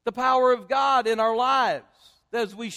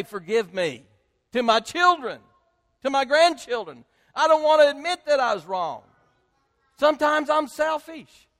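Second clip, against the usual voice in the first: louder, driving confession of selfishness; rising preacher's fervor; 3 dB louder than usual. Acted. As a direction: preach it out to the whole room. Full-force preaching confession.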